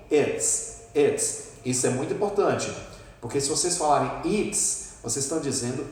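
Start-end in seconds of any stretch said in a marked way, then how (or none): 0.1-1.5 "Its" clipped short; short sound. Shown as a demonstration. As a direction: keep "its" very short. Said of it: "É um som, de um certo modo, mais curto".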